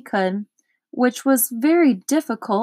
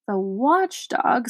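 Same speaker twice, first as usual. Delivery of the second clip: slow, puzzled echo; quizzical; slower than usual. Acted. Milo puzzled by the watchdog's name, quizzical. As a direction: Milo repeats the word slowly, wondering. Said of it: "said Milo quizzically".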